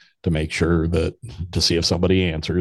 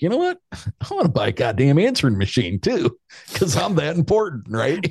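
high, pompous mock voice with a laugh; hammed-up grand airs about buying a gadget; mock self-important; 9 semitones higher than usual. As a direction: play up your own importance, pitched way up. Mocking his own self-importance.

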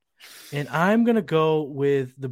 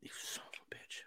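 hushed mock curse; whispering; 26 dB quieter than usual. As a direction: breathe it out, no voice. Mock outrage at rival's pick.

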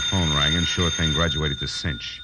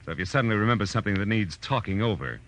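rising threat; 4 semitones higher than usual. Acted. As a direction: lean harder on him with every sentence. Detective threatening a suspect.

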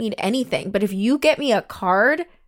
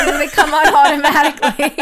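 clueless question; 4 semitones higher, 6 dB louder than usual. Retold or imitated. Mocks own clueless car questions.

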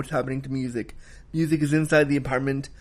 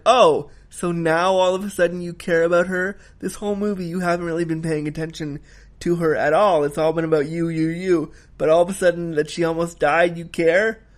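angry retort; 3 semitones higher than usual. Retold or imitated. Viewer scolding Zoo for caring too late, mildly angry. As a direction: fire it back at her with mild mock indignation. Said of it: "I was so angry about that".

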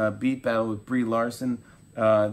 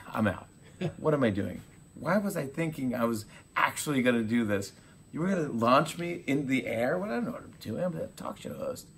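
rising panicky retelling; mild mock panic rising to a hushed end; 4 semitones higher than usual. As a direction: play a host backing out in a fluster. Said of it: "And he goes".

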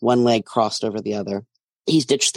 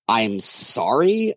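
slow, drawn-out disbelieving question; incredulous; much slower than usual. Acted. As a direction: stretch it out in disbelief. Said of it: "I ask incredulously".

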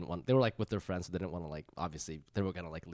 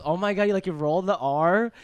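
mock gushing girl; 9 semitones higher, 7 dB louder than usual. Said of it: "and then the girl goes".

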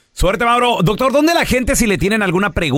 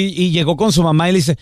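voice changed; 3 semitones lower than usual. Acted. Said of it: "ya me cambió la voz".

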